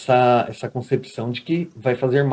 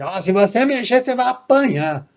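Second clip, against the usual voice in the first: threatening mother; 9 semitones higher than usual. Retold or imitated. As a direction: turn the warning into a shrill threat. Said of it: "Não é isso".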